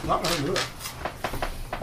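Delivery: breathy slow whisper, "not gonna do it"; slow whispered refusal. Acted. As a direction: draw out a hushed, slow "no way". GM comic refusal catchphrase.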